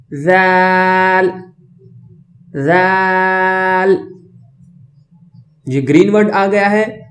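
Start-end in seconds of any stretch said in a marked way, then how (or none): 0.1-4.0 ذال as "dhaal", tongue between teeth, long vowel; thin interdental sound. Shown as a demonstration. Teacher models for students, thin drawn-out ذال. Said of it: "اور باریک آواز ہو".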